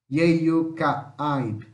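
Yeyucaaib with the vowels glided together; demo pronunciation. Shown as a demonstration. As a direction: model Yeyucaaib for the class. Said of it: "Ó, tudo junto". (pronúncia de Yeyucaaib, vogais juntas)

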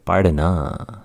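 "Pardana" with a small h breathed after the d; aspirated pardana. Shown as a demonstration. Teacher models the aspirated word for students. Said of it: "There is that little H sound".

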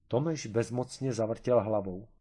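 usual speaking voice

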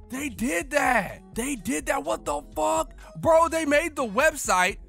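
high, excited exclaiming; hyped disbelief. Real, not acted. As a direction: rave about it breathlessly. Hype reaction to website.

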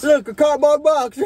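high, slow, loud, then a laugh; excited. Real, not acted. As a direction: point it out in mock wonder. Teasing, laughing.

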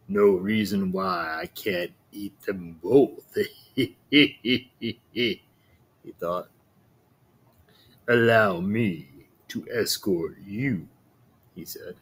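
low, slow, scheming wolf; a cunning wolf savouring his plan, slowly; sly wolf voice. Acted.

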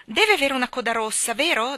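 put-on loud, high, insistent child; arguing child. A narrator's reading. Michael appealing to his mother in a squabble, arguing child.

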